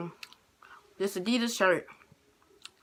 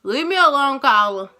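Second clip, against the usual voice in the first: louder annoyed call-back; 2 semitones higher, 6 dB louder than usual. Real, not acted. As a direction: tell her to leave you alone. Teasing off someone calling.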